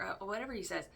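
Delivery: usual speaking voice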